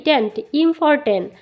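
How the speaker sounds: "important" drawn out syllable by syllable, very slow; teacher stretching "tent, important" for students; slow syllable demo. Shown as a demonstration. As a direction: build "important" slowly from "tent". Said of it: "এ এন টি".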